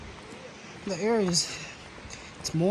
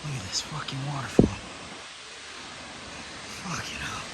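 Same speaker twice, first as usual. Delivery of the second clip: whispered awe; 6 semitones lower, 11 dB quieter than usual. Real, not acted. Whispering at the waterfall.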